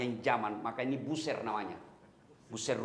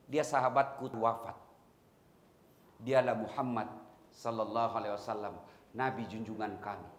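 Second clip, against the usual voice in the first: mournful; 4 semitones lower, 3 dB quieter than usual. Retold or imitated. Grieving companion tells of death.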